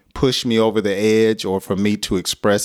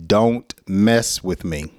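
slow firm warning; slower than usual. Shown as a demonstration. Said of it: "Another way that you can express your anger".

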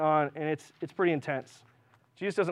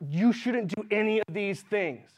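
mock self-righteous scold; 2 semitones higher, slower than usual. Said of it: "they're just angry".

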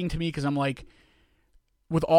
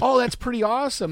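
forced praise; 7 semitones higher, 4 dB louder than usual. Retold or imitated. Fake praise of gift.

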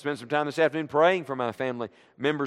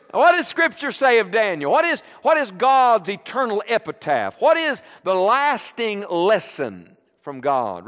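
louder, higher preacher call; rising preaching call; 5 semitones higher, 4 dB louder, slower than usual. Acted. Preacher building up to the refrain before the congregation, louder and higher.

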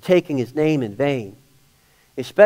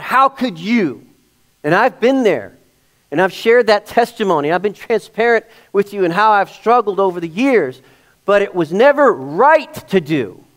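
emphatic preaching; 4 semitones higher than usual. Real, not acted. Preaches with force.

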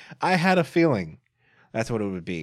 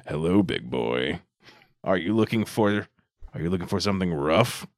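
breathy vintage purr; 7 semitones lower than usual. Retold or imitated. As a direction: purr it like a phone sex operator. Phone sex line voice answering.

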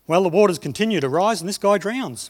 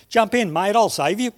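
a called-out offer, higher and louder; calling out; 4 semitones higher, 4 dB louder than usual. Acted. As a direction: shout it across the water to the man on the balcony. Rescuer in rowboat calls out.

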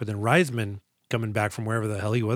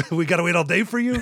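harsh barking commands; 6 semitones higher, faster than usual. Retold or imitated. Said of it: "things that a phys ed coach can yell at".

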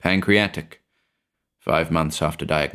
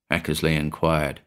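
usual speaking voice

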